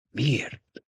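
soft whisper; a weak, whispered question; dying duke whispering. A narrator's reading. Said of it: "suttogta Leto".

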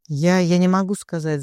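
stuttering out of fear; stammering. Acted. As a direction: stammer on the first word. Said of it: "заикаясь, ответил Виктор". (заикаясь от страха)

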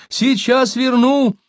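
high, eager flattery; storyteller voicing a wheedling coward; ingratiating. A narrator's reading. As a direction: plead high-voiced to win them over. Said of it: "Льстиво оглядывая толпу".

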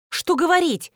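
high, pleading ask; a high, plaintive plea; plaintive question. A narrator's reading. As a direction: ask helplessly. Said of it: "жалобно спросила жена Ильи".

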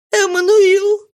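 high, loud sobbing cry of his name; wife crying out to her husband, sobbing. A narrator's reading. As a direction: call out his name through tears. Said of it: "рыдая, несчастная Мари".

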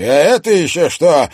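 high, loud startled cry; shocked. Acted. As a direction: gasp it out in alarm.

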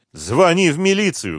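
high, urgent command; narrated yell, pitched well up; calling out. A narrator's reading. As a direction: shout back while dashing away. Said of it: "крикнула ей, выбегая".

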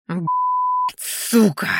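sharp high yelp of a curse; startled curse. Acted. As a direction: blurt it out in shock. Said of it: "воскликнул чей-то голос".

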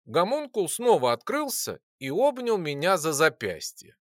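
usual speaking voice

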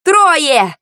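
high, urgent call; battle callout. A narrator's reading. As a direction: shout the count to your team. Calling out targets in battle.

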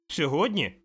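high puzzled echo; boy baffled by the question; surprised boy. Acted. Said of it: "знову здивувався хлопчик". (здивований хлопчик)

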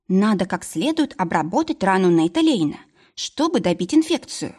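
lightly hoarse, worn-out voice. Acted. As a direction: rasp it out, exhausted. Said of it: "не узнала собственный хриплый голос".

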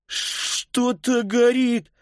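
high, drawn-out acted alarm; alarmed cry. A narrator's reading. Child raises a fire alarm.

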